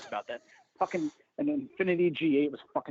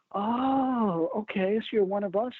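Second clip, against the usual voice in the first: surprised spouse; 7 semitones higher, slower than usual. Retold or imitated. Spouse suddenly changes tone.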